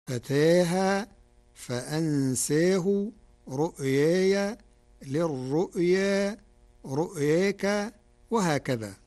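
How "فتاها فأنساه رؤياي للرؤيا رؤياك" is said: final alif in فتاها tilted towards e; taqlil. Shown as a demonstration. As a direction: slowly recite رؤياك with aa leaning to ay. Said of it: "بالتقليل فهي كالآتي".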